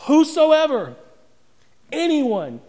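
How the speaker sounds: high and loud, flung out to the hall; ringing proclamation. Real, not acted. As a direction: cry it out as the answer to everything. Preacher proclaims who gets life.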